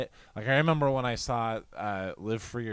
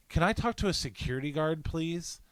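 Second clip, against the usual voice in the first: prissy complainer; 5 semitones higher than usual. Retold or imitated. Retold complaining woman asks for guard.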